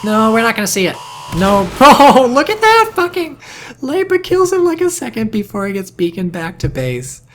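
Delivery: loud, high-pitched excited shouting; excited outburst. Real, not acted. Caster seeing Jivel's ambush go wrong, excited shouting. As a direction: burst out in laughing disbelief at the play. Caster reacting to sudden kill.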